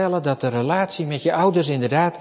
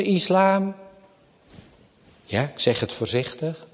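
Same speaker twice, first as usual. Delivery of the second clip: normal talking voice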